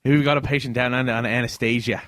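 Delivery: hammed-up Aussie doctor; Australian accent. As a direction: narrate like a mischievous Australian surgeon. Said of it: "Oh, Australian, my bad".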